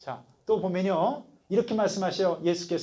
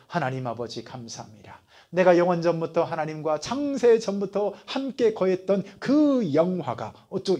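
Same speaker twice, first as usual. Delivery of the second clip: mock solemn prayer. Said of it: "이렇게 기도하면".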